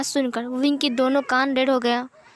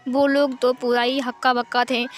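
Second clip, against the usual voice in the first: plain reading voice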